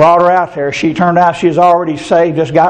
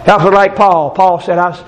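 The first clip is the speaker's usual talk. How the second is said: earnest praying to the Lord, lightly lifted; pastoral prayer. Acted. Pastor praying over the congregation, earnest prayer voice. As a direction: lead the church in prayer.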